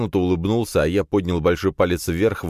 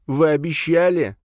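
higher, louder tearful plea; near tears; 11 semitones higher, 3 dB louder than usual. A narrator's reading. Captive lad begs the heroes not to kill him, near tears. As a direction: beg for your life, close to crying. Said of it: "чуть ли не заплакал парень".

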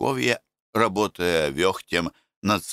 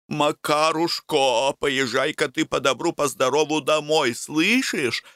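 gently; 7 semitones higher than usual. Acted. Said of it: "ласково заговорила Таисия".

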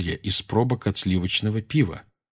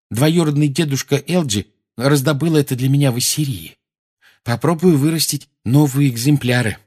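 put-on excited boy; 4 semitones higher than usual. Neville excited about plant.

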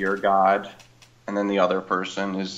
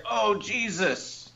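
mock moan; 10 semitones higher, 7 dB quieter, much slower than usual. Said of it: "have you ever heard somebody say".

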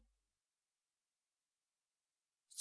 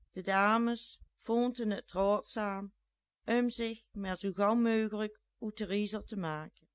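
usual speaking voice

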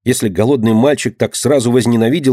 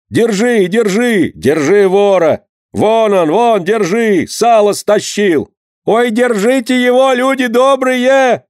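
shouting after a thief; 10 semitones higher, slower than usual. A narrator's reading. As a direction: yell to the whole market to catch him. Crowd chasing a thief.

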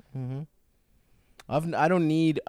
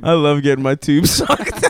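giggly repeat; 2 semitones higher, 6 dB louder than usual. Pretend. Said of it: "repeats friend's line for fun".

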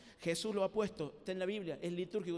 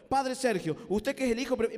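reading it out; 3 semitones higher, 6 dB louder than usual. Shown as a demonstration. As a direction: read it off the paper like a formal address. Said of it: "cómo me lo dice leyéndolo".

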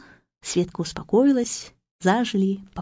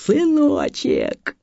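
higher, slow drawn-out yell of joy; mock yell; 7 semitones higher, much slower than usual. Father waking up, yelling to his son, mock joyful. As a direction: call out to the newborn son. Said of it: "один глаз открыл и заорал".

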